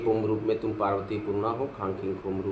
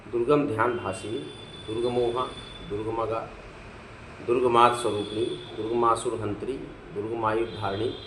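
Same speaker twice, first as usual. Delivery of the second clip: measured list of holy names, paused after each; sacred name recitation. Acted.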